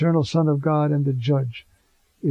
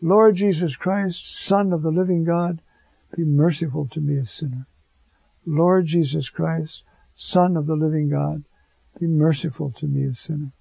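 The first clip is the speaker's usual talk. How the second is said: prayer. Acted. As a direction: recite it like a monk at prayer. Recites the Jesus prayer slowly.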